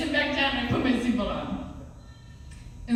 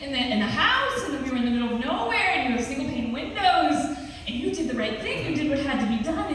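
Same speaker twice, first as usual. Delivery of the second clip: excited reassurance; 5 semitones higher than usual. Retold or imitated. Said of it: "And I was like".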